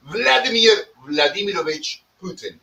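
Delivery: name rolled out in a hammed-up Russian accent; mock Russian accent. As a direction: give the full name a lightly mocking Russian accent. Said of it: "say it with all those Russian accents".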